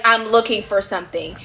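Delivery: retold in a low, serious tone; dead serious. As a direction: say it earnestly, no joking. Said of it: "looks at us so serious".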